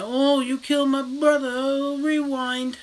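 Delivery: the brother mocked as a whiny cheat; mocking villain voice. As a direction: sneer at the villain's cheap trick.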